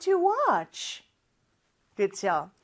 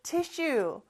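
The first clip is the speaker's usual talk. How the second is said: "T I S S U E" letter by letter, very slowly; spelling out; 2 semitones higher, 5 dB quieter than usual. Shown as a demonstration. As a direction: spell it out slowly for learners, each letter separate. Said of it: "스펠링을 잘 봐주세요". (한 글자씩 천천히 철자 읽기)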